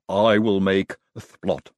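slow lisping servant voice; lightly voiced lisping helper; Igor voice. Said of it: "said Igor".

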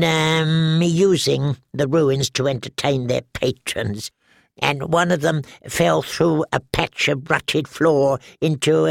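a jittery little man stammering excuses; nervous alchemist. Acted. Halin the nervous pyromancer.

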